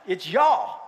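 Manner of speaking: "y'all" run together as one drawled word. Shown as a demonstration. Pastor teaches the word, "y'all" as one syllable. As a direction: draw out "y'all" as a single syllable. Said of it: "It's one word".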